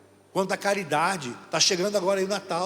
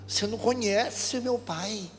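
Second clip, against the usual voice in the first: put-on child's voice; 6 semitones higher, much slower than usual. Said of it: "Ele falou".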